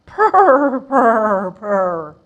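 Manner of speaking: loud purring sound fading down; kitten purrs. Acted. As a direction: purr like a pleased kitten.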